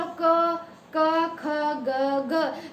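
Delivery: क, ख, ग sounded from the throat; guttural sounds demonstrated; sound demo. Shown as a demonstration. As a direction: pronounce क ख ग one at a time. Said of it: "क्या बोलो".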